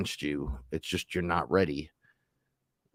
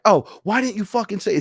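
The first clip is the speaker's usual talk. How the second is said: high, louder retold outburst; exasperated protest; 13 semitones higher, 5 dB louder than usual. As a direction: act out an indignant complaint, pitched way up. Acted protest to higher self.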